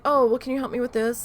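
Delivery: hammed-up needy in-law; whiny mock request. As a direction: play the needy relative, sing-song. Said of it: "they're like".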